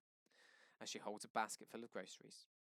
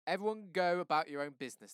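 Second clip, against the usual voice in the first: raised, high command to the crowd; loud order; 7 semitones higher, 11 dB louder than usual. Acted. White cop shouts at the gathered neighbors. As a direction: shoo the onlookers off.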